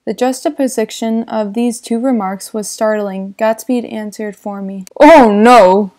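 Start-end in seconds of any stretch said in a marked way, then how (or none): 5.0-5.9 louder quick protest; exclaimed. Acted. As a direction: cut him off with a firm no. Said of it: "he exclaimed".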